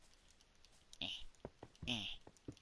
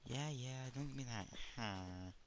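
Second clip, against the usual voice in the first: sarcastic; 5 semitones higher than usual. Pretend. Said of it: "In a sarcastic tone".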